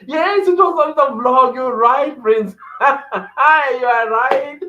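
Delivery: high, loud laughing exclamations. Real, not acted. Laughing to a viewer about the vlog comment, high and loud. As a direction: crack up while agreeing with the comment.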